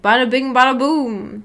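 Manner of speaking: lightly voiced New York accent; a mild hint of New York on bada bing. Shown as a demonstration. Streamer tries a light New York accent for chat. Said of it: "New York accent".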